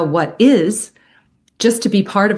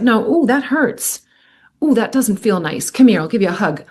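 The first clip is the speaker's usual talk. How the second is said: tender comfort. Shown as a demonstration. Parent comforting a child who banged a knee, tender. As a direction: comfort a hurt child gently. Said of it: "it's like".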